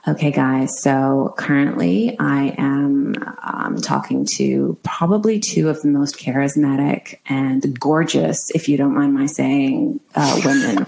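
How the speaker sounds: casual American accent, unhurried. Shown as a demonstration. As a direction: slip into an easy American accent. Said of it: "Go on, try it".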